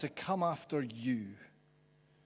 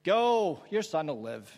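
dismissive send-off; 5 dB louder than usual. Shown as a demonstration. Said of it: "play with those words".

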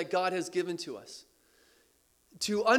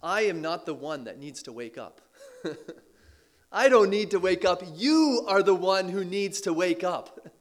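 voicing God. Preacher voicing God's answer to the people, lightly firm. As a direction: speak as God gently correcting his people. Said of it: "as if God was saying".

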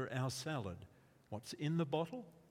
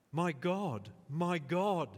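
crying out; 4 semitones higher, 4 dB louder, slower than usual. Acted. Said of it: "David cries out".

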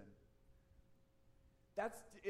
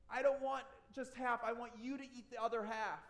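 put-on whining child; 5 semitones higher, 4 dB louder than usual. Whining child Robbie in story.

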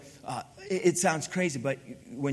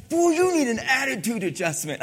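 retold parental scolding; 6 semitones higher, 5 dB louder than usual. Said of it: "One time I said to my son".

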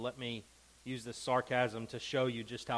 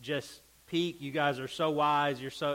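sarcastic. Retold or imitated. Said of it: "he's being sarcastic about it".

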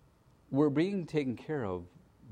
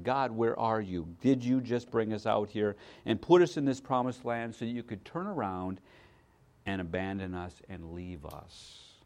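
quiet lament. Retold or imitated. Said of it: "here she is voicing Israel".

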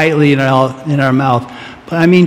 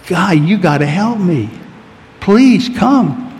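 mock plea, climbing high on please; pleading prayer; 3 semitones higher, slower than usual. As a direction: beg God to come, a little higher. Voicing desperate prayer.

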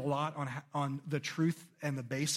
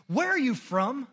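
Pilate asking; 9 semitones higher, 6 dB louder, slower than usual. A narrator's reading. Pilate questions Jesus.

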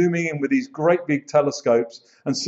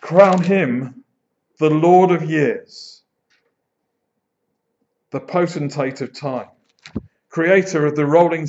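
proclaimed hymn line; 4 dB louder than usual. Shown as a demonstration. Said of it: "the final verse goes on to say this".

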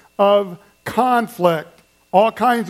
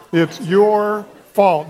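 mock blame; much slower than usual. Shown as a demonstration. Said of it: "Can you do that?".

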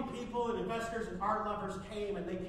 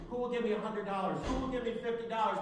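auctioneer calling; 3 semitones higher, 5 dB louder, faster than usual. Acted. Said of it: "He kept saying".

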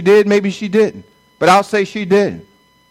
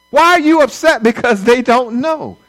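emphatic question; 4 semitones higher than usual. Real, not acted. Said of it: "repeated for emphasis".

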